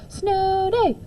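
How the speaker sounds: put-on high, thrilled child's cheer; excited shout. A narrator's reading. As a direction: yell it with glee. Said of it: "Tyrone shouted".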